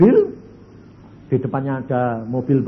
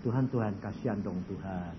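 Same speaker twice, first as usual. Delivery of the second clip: much lower and softer, begging; soft pleading prayer; 7 semitones lower, 13 dB quieter than usual. Retold or imitated. Husband begs God softly to heal his blind wife. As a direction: plead quietly for mercy.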